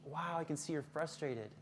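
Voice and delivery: soft, sympathetic murmur. Shown as a demonstration. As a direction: show empathy in a softened voice. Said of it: "use a soft voice".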